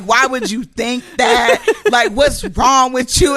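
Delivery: mock scolding.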